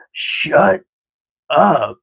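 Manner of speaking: mock-amazed exclamation, a pause between the words; Kevin Smith. Imitating film character's reaction at the restaurant, mock disbelief. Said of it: "he says".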